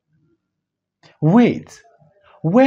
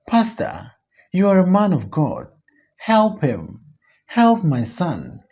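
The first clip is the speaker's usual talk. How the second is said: mother's concern; 2 semitones higher than usual. Acted. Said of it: "full of a mother's concern".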